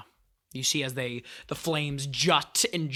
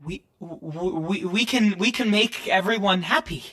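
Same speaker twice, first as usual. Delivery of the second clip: yellow version; 4 semitones higher than usual. Acted. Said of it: "as this yellow version speaks".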